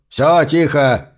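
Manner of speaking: slow barked order. Acted. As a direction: bark it at the crowd, drawn out. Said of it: "рявкнул полисмен".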